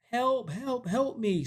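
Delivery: high, thin-volume imitation of calling; mock cry for help. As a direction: play a distant plea, not shouted. Man calls from the basement.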